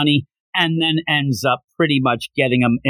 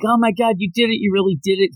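excited cheer; 8 semitones higher, faster than usual. Retold or imitated. Friends celebrate Goku's win.

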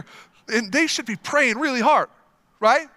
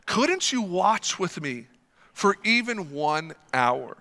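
sorrowful Jesus. Acted. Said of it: "He said to Peter".

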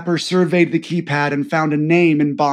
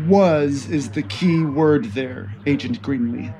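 strong commanding voice; 2 semitones lower than usual. Acted. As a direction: speak with steady command. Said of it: "said a strong voice".

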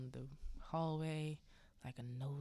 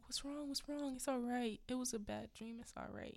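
comforting; 7 semitones higher than usual. Retold or imitated. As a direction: act out a wife soothing him out of a nightmare. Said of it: "She's comforting him".

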